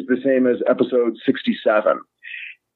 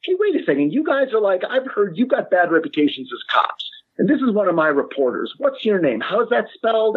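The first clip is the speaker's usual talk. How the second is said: imitating Tony; 5 semitones higher than usual. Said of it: "Tony comes in and he's like".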